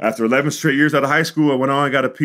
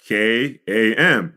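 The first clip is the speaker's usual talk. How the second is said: slow spelling; much slower than usual. Retold or imitated. Boy spelling came for the professor, slowly letter by letter. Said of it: "like it sounds".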